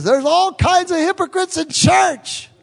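high, loud mocking complainer's voice; hammed-up high whiny gripe about church hypocrites; mock churchgoer complaint. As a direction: sneer it like a gossiping critic. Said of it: "Everybody says".

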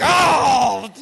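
loud, high exasperated "oh!"; mock outburst of pent-up frustration; frustrated shout. Driver retells exploding at the woman, frustrated shout. Acted outburst after being provoked.

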